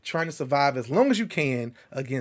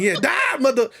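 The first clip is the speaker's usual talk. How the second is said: louder, higher mock battle yell; retold yelling; 8 semitones higher, 6 dB louder than usual. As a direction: re-enact a gamer's loud outburst. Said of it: "I was yelling".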